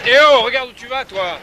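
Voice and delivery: high, loud warning call; scolding shout. Acted. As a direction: shout at a careless player. Telling off someone during a ball game.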